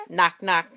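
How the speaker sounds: low knocking sound. Shown as a demonstration. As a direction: knock like a hand on a door. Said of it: "like a hand on a door".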